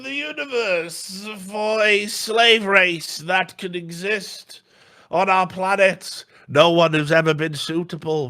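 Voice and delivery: high, slow, booming alien proclamation; hammed-up high alien decree; alien overlord voice. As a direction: announce it like a sinister alien ruler. Retelling alien speech in film.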